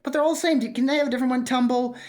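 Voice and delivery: high-pitched character voice; acted high-voiced protest; imitated dragon complaint. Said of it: "then he's like".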